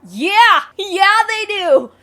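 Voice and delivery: loud, high exasperated shout; heated yell. Real, not acted. Yelling at the chat about recruiting with sick kids. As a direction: let it burst out, fed up. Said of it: "I just got heated".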